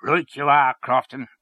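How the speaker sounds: emphatic, punched approval; fierce. A narrator's reading. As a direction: back him up fiercely. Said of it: "said Mister Henchy fiercely".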